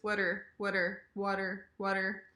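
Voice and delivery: "water" with short uh vowel, like whudder; shortened "water". Shown as a demonstration. Teacher avoids the awe vowel, shortened "water". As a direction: say "water" short and softly tapped. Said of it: "shorter version of the word water".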